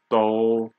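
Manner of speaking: teacher's level-tone demo of Do; first tone. Shown as a demonstration. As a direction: Do drawn out on a level pitch. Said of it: "first tone".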